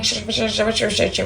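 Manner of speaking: soft lisped sh sh sh; lisping sh sounds. Shown as a demonstration. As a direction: demo the lisp as sh sh. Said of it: "it sounds like I'm saying".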